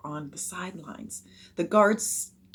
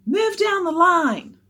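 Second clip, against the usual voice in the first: loud, high, slow holler; drawn-out, raised call; coach shouting an order; 11 semitones higher, 9 dB louder, slower than usual. A narrator's reading.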